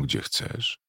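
"gdzie chcesz" breathed with no voice, "gdzie" lifted; pure whisper. A narrator's reading. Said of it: "szeptała".

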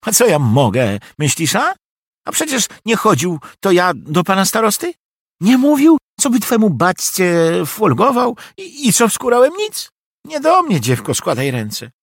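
high, loud flustered protest; exasperated old steward. A narrator's reading. Steward protesting loudly to the pleading girl that he can't help. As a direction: throw up your hands, it's not my fault.

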